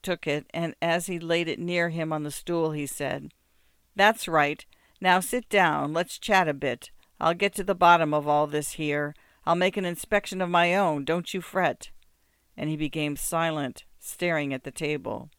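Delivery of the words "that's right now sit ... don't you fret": a hint of a gruff peasant, louder; gruff but settling him down; lightly voiced muzhik. Muzhik telling the beggar to sit, mildly gruff.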